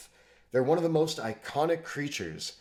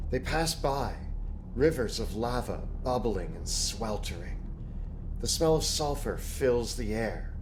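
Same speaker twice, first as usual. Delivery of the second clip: game master narration. Acted. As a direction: set the scene like a dungeon master. Game master sets the scene.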